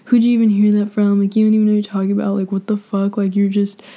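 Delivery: imitating a defensive ex, rapid-fire; mock angry confrontation. Ex demanding where she heard that, imitated in mild anger. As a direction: throw his indignant questions back, mildly heated. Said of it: "he got all mad at me".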